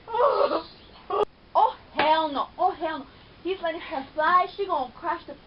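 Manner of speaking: loud, keyed-up reaction to the plane scene; excited yelling at TV. Real, not acted. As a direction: shout along with the show.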